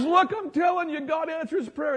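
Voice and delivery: triumphant wife. Retold or imitated. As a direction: proclaim it in triumph. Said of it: "She goes".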